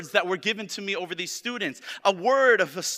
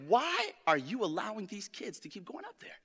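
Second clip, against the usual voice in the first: retold anger; 3 semitones higher, 5 dB quieter than usual. Preacher retells scolding Stephanie over the kids upstairs, mildly mock-angry. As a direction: re-enact a mild, soft-volume telling-off. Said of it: "And I got angry".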